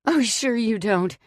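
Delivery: very high, loud hysterical yelling; cursing the husband and calling to Willard, hysterical; frantic shouting. A narrator's reading. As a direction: scream it out, losing control. Frantic outburst at captive.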